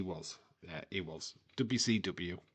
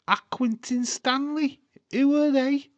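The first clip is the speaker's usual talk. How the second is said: advert quote; 8 dB louder than usual. Retold or imitated. Quoting the famous milk advert.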